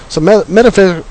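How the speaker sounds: stumbling over a hard word; tripping over words. Real, not acted. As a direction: stammer through the word metaphysical. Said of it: "I'm, like, choking on my words".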